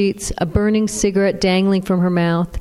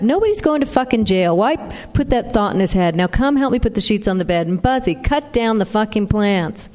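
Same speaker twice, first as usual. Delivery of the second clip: snapping; 3 semitones higher than usual. Acted. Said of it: "Louise snapped".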